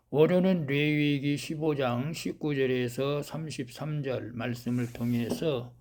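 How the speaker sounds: ordinary talk, nothing marked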